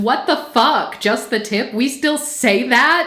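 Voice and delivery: mock words broken by awkward, uneasy laughter, disbelieving. Retelling a woman's reaction in a show confessional: imitating someone laughing uncomfortably. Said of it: "She's laughing uncomfortably, and she's going".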